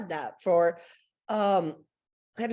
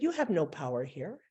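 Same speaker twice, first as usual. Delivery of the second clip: good witch; 4 semitones lower, 5 dB quieter than usual. Retold or imitated. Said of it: "And she said".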